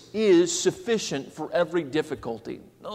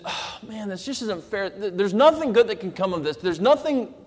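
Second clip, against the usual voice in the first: mock complaining. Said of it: "going through the difficulties".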